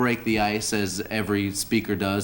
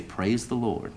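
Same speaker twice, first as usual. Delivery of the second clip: preacher's instruction; 4 dB quieter, slower than usual. Acted. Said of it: "look up to the sky and say".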